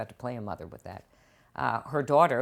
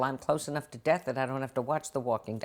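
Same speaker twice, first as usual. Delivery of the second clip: quipping to Scott Gimple; 7 dB louder than usual. Retold or imitated. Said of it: "as I said to Scott Gimple".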